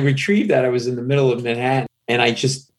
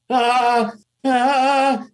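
high, nervous stammered ahs; starstruck stammer. Retold or imitated. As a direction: gasp out two flustered ahs. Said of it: "I'm like".

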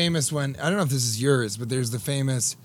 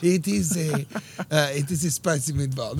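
softer mock Italian accent; Italian accent attempt; 4 dB quieter than usual. Shown as a demonstration. Co-host copying the meatball line, mock Italian accent. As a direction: have a tentative go at an Italian accent. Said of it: "That's Sicily".

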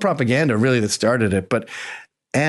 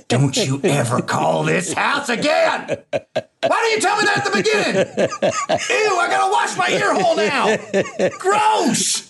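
much higher shrieking mock outrage, laughing; hammed-up disgusted bigot; 13 semitones higher, slower than usual. Husband parodying his wife recoiling from a Jewish neighbor, high mock shriek. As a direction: screech it like a prissy bigot, over the top. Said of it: "Like my wife was gonna go".

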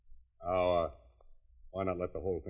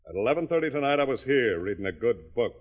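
louder, higher hammering alibi; loud firm alibi; insistent alibi; 5 semitones higher, 10 dB louder than usual. Acted. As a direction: drive the alibi home. Owner repeating alibi forcefully.

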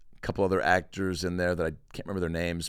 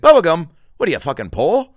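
loud, higher sneering shopkeeper; mock scornful yell; 8 semitones higher, 14 dB louder than usual. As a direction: bark it at a broke kid in disbelief. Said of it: "He's like".

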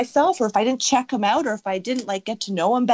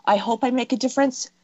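tentative wish, raised pitch; hopeful, non-emphatic; 4 semitones higher than usual. Shown as a demonstration. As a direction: say it as a mere hope, unsure. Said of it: "fine tune how you're saying that".

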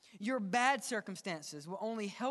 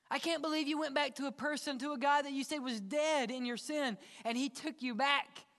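amazed onlookers; 6 semitones higher than usual. Acted. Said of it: "They need to see".

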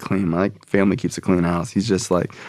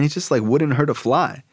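higher-pitched fond dad, acted; gushing praise; 5 semitones higher than usual. Dad praising Carl to his son, gushing. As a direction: vouch for him earnestly.

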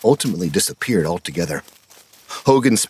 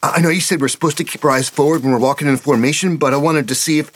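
put-on higher, eager boy voice; young boy Petey; 9 semitones higher, faster than usual. A narrator's reading. Petey apologizing to his scoutmaster, higher boyish voice. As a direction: voice the kid, breathless and sorry.

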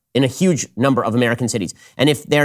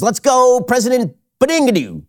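mock old-man yelling; 10 semitones higher than usual. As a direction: yell it like a cranky old man at clouds. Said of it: "he starts yelling at you".

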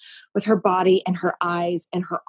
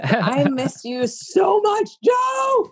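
laughing fondness; 12 semitones higher, much slower than usual. Real, not acted. Fond laughing reunion.

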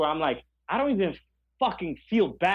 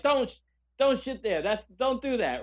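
higher, sharp mock scolding of a dog; 5 semitones higher than usual. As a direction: tell the dog off, half joking.

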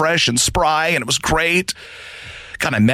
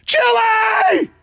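high stretched-out shout from the shower; shouting to wife; much slower than usual. Retold or imitated. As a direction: call it out, way up high and drawn out.

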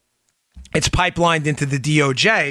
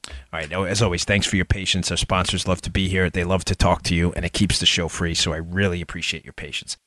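quiet ad lead-in; 7 semitones lower, 5 dB quieter than usual. Real, not acted. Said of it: "I gotta pay for the show here".

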